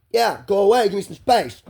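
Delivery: high, loud panicked plea; panicking. Retold or imitated. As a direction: re-enact begging for space in a panic. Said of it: "I'm fucking panicking".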